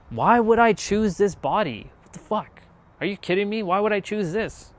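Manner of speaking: exasperated outburst at self. Retold or imitated. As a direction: throw the question at the sky, fed up. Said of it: "I was like".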